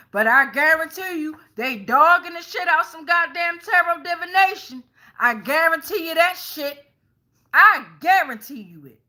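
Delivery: loud, high, insistent guarantee; emphatic insistence. Real, not acted. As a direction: hammer it home, heated and sure. Emphatic rant about tarot critics.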